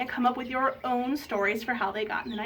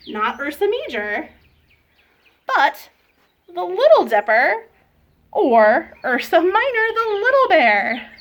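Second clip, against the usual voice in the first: loud, drawn-out grand announcement; booming storyteller finale, swooping up high; triumphant reveal; 6 semitones higher, 11 dB louder, slower than usual. A narrator's reading. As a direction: proclaim the big reveal to the room. Big reveal at story's climax.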